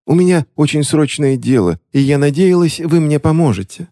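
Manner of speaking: high, theatrical plea of a scheming witch; mock tragic lady. A narrator's reading. Witch feigning tragedy to the bank clerk. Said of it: "нацепив маску трагизма".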